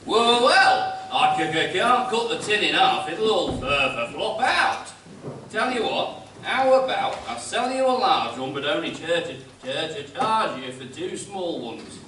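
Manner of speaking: hesitant stammer, tripping over words; stammering shopkeeper. Acted. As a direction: stutter on the consonants. Arkwright stammering shopkeeper, announced stammer.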